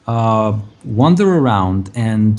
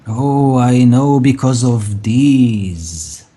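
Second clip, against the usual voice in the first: put-on very old woman; slower than usual. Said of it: "very, very old woman".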